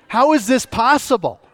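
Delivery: high-pitched mock amazement; acted astonishment. Preacher voices crowd hearing unstudied languages, astonished. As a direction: exclaim it like a baffled onlooker.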